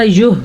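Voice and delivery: wrong demo, throat ha weakened in یوہ; unclear ha. Shown as a demonstration. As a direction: let یوہ end on a light h. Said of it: "واضح نہیں کریں گے تو یہ کیا بن جائے گا؟".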